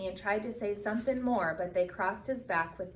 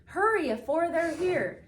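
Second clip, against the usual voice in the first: put-on higher, louder hurried old woman; frantic old woman; 9 semitones higher, 5 dB louder than usual. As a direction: hurry them along, almost pleading. Old woman shoving kids in.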